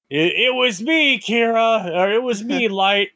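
high, hammy villain reveal. Pretend. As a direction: gloat like a hidden mastermind. Acting out Matsuda's secret reveal.

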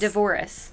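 "divorce" with a slight extra syllable at the end; a mildly confident, French-tinged "divorce"; confident French-style divorce. Shown as a demonstration. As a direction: say "divorce" assuredly, lightly Frenchified. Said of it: "say it with some confidence".

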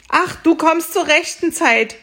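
hoch und laut vor Freude rufen; freudiger Schrei. Acted. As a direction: erleichtert aufjubeln. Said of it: "schrie der Bauer voller Freude". (freudig erleichterter Ausruf, hoch und laut)

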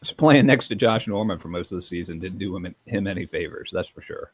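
talking through a mouthful of cookie; mouth full. Real, not acted. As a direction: speak round a bite of cookie. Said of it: "I'm eating my gingerbread cookies right now".

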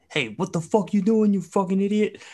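high mock yell, a put-on voice; mock angry yell. Draymond cussing out a teammate, mock angry yell. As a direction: snap it like a hothead cussing. Draymond yelling heard by ref.

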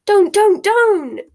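high, loud panicked cries; hysterical. A narrator's reading. Hermione begging Ron not to mention results, hysterical. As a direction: shriek it, losing control. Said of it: "flapping her hands hysterically".

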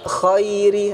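khairi with a voiceless scraped kh; gh swapped for kh. Shown as a demonstration. Teacher showing what to avoid, voiceless kh in khairi. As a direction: start khairi on a dry upper-throat scrape. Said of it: "tertukar dengan suara kho".

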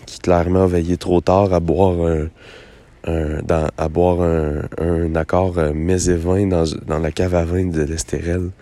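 rough, hoarse morning voice; raspy after a late night. Real, not acted. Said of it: "avec ma voix rauque". (voix rauque du lendemain de veille)

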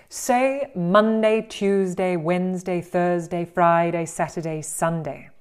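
over-articulate Monday, Tuesday, each day slow and wide; exaggerated articulation. Shown as a demonstration. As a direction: stretch the mouth on every day name. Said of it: "do it in a highly exaggerated way".

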